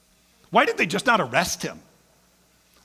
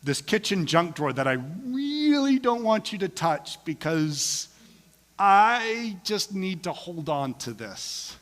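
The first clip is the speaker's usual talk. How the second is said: mock reluctant believer; 4 semitones higher than usual. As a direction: offer everything but the junk drawer. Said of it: "We often say".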